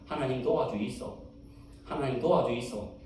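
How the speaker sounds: a humble grandmother begging God; grandma's prayer. Retold or imitated. Preacher voices grandma praying simply, pleading. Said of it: "할매는 이렇게만 기도하면 된다고".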